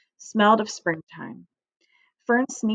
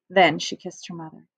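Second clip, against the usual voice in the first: usual speaking voice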